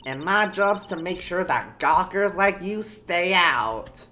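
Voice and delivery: put-on emphatic, high old guard; old person voice. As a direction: tell them off like an old busybody. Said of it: "how do I do an old person voice?".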